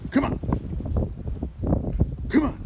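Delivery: high call to the dog. Real, not acted. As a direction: call him over, bright and high. Calling dog across ice.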